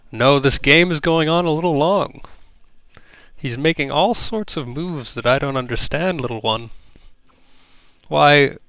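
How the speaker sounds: a hint of a curious, kindly creature; mildly voiced old uncle. Hundred answers the child.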